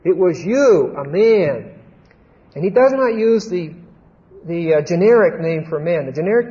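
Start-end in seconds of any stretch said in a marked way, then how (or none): 0.0-1.7 "you" swelling up in pitch and drawn out; emphatic, pointed "you"; stress on YOU. Acted. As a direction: punch the word "you". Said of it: "you" is emphatic".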